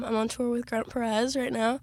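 hoarse, worn-out tired voice; voice giving out. Real, not acted. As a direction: speak on a tired, strained voice. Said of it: "my voice is giving out".

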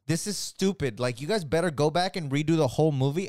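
worked-up scolding on the fans' behalf; heated demand. Retold or imitated. Fans order filmmakers to redo the movie, heated. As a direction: imitate outraged fans, quick and insistent. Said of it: "sorry that I'm getting so heated".

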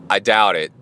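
calm. Retold or imitated. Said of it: "like that".

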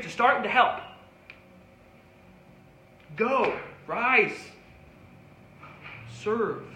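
rising, insistent pulpit preaching; fervent sermon delivery. Acted. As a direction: preach it to the pews, building on each call. Preaching to the congregation.

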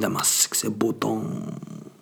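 hammed-up seductive voice, whispering; mock sexy voice. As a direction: lay on a fake sexy tone. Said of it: "It sounds".

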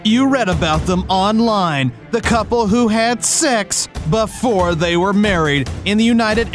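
booming TV promo announcer; dramatic reality show hype. Acted. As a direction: sell it like a cable TV trailer.

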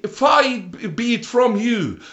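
acted rebuke, high and forceful; rebuking. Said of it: "He rebuked Jesus".

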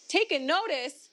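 "Taken notice?" diucapkan lebih tinggi dan keras; stress on taken notice. Shown as a demonstration. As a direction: tekankan "Taken notice?" dengan heran. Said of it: "That's core language speak".

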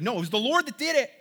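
quickly insist, pitch lifted, mildly acted; emphatic denial. Joseph correcting his frightened brothers, emphatic denial.

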